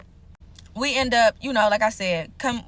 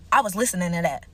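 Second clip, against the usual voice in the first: attitude; 4 semitones lower than usual. Retold or imitated. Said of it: "like, with a real life attitude".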